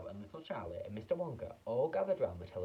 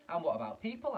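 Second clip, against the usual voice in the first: put-on boy's voice; 7 semitones higher, 5 dB louder than usual. A narrator's reading. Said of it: "asked Mike T V".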